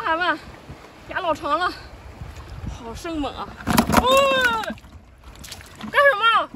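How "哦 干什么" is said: a sudden high, loud yelp of fright; real fright. Real, not acted. Vlogger startled by a lunging eel, yelping in fright. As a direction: jump and cry out as the eel lunges. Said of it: "吓死我了！".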